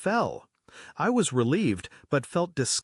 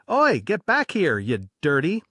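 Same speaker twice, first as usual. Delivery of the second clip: shouting. Retold or imitated. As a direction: chase her with the words. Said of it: "he kept shouting".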